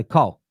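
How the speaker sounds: "Cole" the way a Southerner says Kyle; Cole in his accent. Shown as a demonstration. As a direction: say "Cole" with a short dark vowel, almost "Col". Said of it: "But it's my accent".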